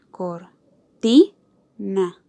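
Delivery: cor... TI... na, very slowly; cortina split into syllables. Shown as a demonstration. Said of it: "en estas tres sílabas".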